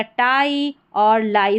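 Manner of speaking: टाई and लाई with आई drawn out; long-vowel टाई, लाई. Shown as a demonstration. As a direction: stretch the "eye" sound in टाई and लाई. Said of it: "आई का उच्चारण लंबा हो रहा".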